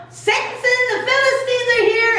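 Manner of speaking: high, quick mock alarm; high-pitched cry at moderate volume; retold yell. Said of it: "And then she yells".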